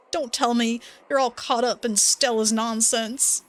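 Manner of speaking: silly Duke voice. Acted. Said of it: "I'm making this silly voice".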